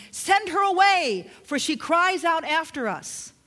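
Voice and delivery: an impatient push to be rid of her. Acted.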